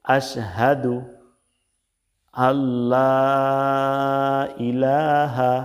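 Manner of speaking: আশহাদু, আল্লা, ইলাহা each set apart with pauses; word-by-word demo. Shown as a demonstration. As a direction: spell it out for the class. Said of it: "তো দেখুন".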